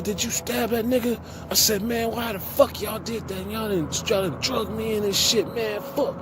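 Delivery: retold fury, voice jumping up high; furious cellmate confrontation, retold; mock angry high-pitched rant. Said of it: "anger came".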